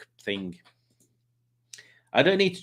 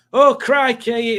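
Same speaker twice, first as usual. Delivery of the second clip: much higher, slow, louder groan; mock complaint; 12 semitones higher, 7 dB louder, much slower than usual. Sweltering in the field, slow high louder moan. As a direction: drag it out high like you're melting. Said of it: "in baking sun like this".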